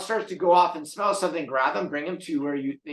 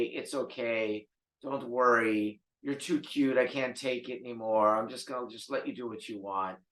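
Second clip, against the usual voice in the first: indulgent cooing; 4 semitones lower, 5 dB quieter than usual. Retold or imitated. A doting owner excusing the dog, softly cooing. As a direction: coo like you can't resist him.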